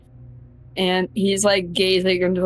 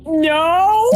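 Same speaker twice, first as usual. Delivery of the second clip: flat no; 9 semitones higher, 4 dB louder than usual. Acted. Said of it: "he's just like".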